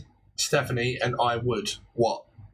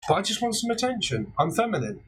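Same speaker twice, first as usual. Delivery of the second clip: mock needy partner; 5 semitones higher, faster than usual. Voices the partner wanting attention.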